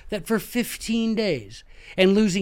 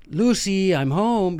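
sitcom homecoming call; 3 semitones higher, slower than usual. Retold or imitated. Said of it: "Nineteen fifties reference".

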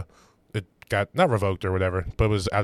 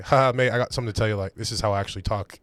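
imitated English accent, lightly done; 3 semitones lower, 5 dB quieter than usual. Friend confessing his real voice after the set, imitated English accent. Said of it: "talking in the fucking English accent".

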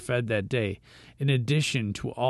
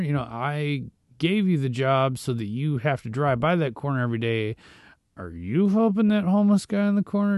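questioning Jesus. Retold or imitated. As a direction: nudge the listener like a caring teacher asking. Jesus voiced questioning believers.

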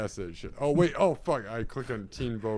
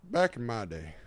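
put-on lightly drawled Southern old-timer; a hint of a Southern grandpa; southern accent; 2 semitones lower than usual. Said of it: "why am I giving a southern accent".

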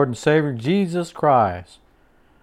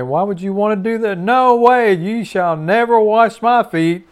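Peter horrified at the idea, pushing back; brash protesting Peter; 5 semitones higher than usual. Acted. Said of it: "But Peter said".

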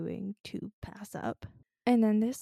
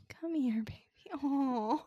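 whispered comfort; 5 semitones higher than usual. Real, not acted. Giving listeners an audio hug, whispered. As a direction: hush it like a hug for a sad friend.

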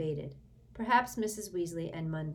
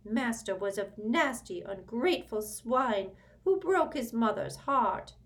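grumbling high elf aside; elf undertone; 7 semitones higher, 4 dB louder than usual. A narrator's reading. House-elf insults Sirius in an undertone. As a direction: mutter the insult under the breath. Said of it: "continuing in an undertone".

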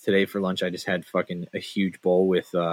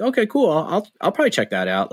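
indifferent shrug; 7 semitones higher, faster than usual. Retold or imitated. Mock indifferent reaction.

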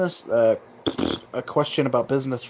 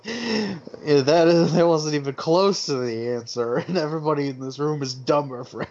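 stern proctor impression; 4 semitones higher than usual. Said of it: "he's like".

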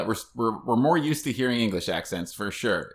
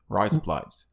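Australian accent; 3 semitones lower, 3 dB quieter, slower than usual. Shown as a demonstration. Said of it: "same thing as saying razor blades in an Australian accent".

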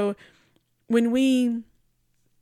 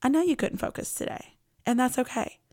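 gentle; 4 semitones higher than usual. Retold or imitated. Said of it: "God just so gently said".

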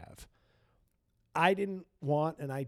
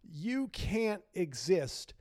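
mock solemn farewell; 3 semitones higher than usual. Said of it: "do I go chief and say".

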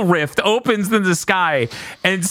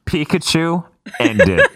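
deadpan command. Retold or imitated. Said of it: "Ash is like".

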